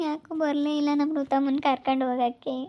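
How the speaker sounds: mildly weepy complaint; a touch of tears; tearful lament. Acted. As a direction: lament as if just after a sob. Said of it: "ಯಾಕೆ ಅಳ್ತಾ ಇದೀಯಾ".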